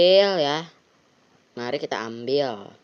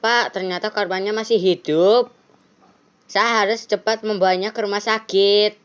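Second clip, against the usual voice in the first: higher, urgent pleading voice; flustered driver; 6 semitones higher, 3 dB louder than usual. Acted. Driver telling the police the victim lives, higher urgent voice. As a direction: talk fast and worried to the officer.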